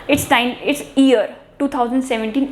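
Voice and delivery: year said like "ear" in a slow example; common mispronunciation. Shown as a demonstration. Teacher quotes everyday usage, year mispronounced as "ear". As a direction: drop the y from year, slowly. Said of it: "ये correct pronunciation नहीं है".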